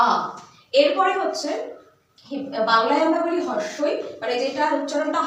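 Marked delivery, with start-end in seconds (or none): 0.1-0.1 "আ" drawn out as aaa; long vowel. Shown as a demonstration. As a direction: hold the open vowel "আ" long. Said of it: "স্বরটা দীর্ঘ হবে". ("আ" দীর্ঘ স্বরে, টেনে)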